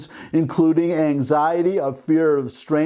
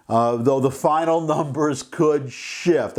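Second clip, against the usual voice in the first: laughing. Real, not acted. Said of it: "I don't know why I'm laughing".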